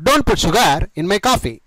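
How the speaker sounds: slowly, word by word for learners; slow model sentence. Shown as a demonstration. Teacher modelling the sentence for students, very slow. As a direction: spell it out slowly so students can copy. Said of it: "ఈ విధంగా చెప్పండి".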